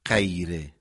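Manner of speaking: غیره with a stopped ق sound, no gargle; hard qaf-like ghayn. Shown as a demonstration. Teacher shows the wrong ق-like sound. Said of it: "نمیگیم".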